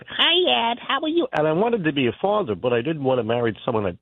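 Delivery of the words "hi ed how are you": put-on high, childish baby talk; imitating a girlfriend's baby voice. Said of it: "use this baby voice".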